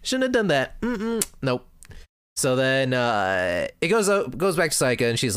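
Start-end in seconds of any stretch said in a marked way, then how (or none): 0.0-1.7 put-on much higher, girly anime voice; girlish scolding voice. Madoka and Homura scolding Sayaka, in a high girlish voice. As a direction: squeak it out like a scolding schoolgirl.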